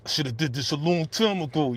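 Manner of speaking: a hint of a mad character's voice; Kanan. Host retrying his TV character voice after clearing his throat, lightly imitated. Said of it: "I'm trying to get my Kanan voice".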